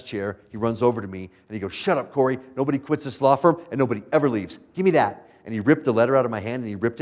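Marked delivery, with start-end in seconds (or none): 1.7-5.3 a louder, higher retold bark from the boss; the boss shuts him down, louder; boss cutting him off.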